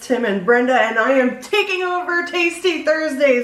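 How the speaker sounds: hammed-up villain gloating; mad scientist. Mock kidnapping takeover of the show.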